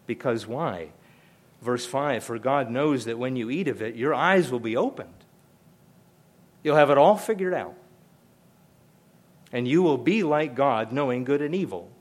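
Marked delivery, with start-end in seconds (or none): 2.2-11.9 tempting serpent. Acted. Preacher voices the serpent's tempting lie.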